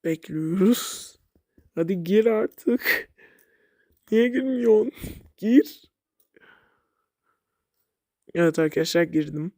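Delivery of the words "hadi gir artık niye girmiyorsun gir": impatient at the game. Real, not acted. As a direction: snap at the slow game to hurry up. Impatient with slow-loading game.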